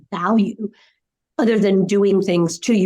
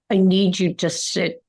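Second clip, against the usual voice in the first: frustrated. Shown as a demonstration. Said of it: "Well, because I'm frustrated".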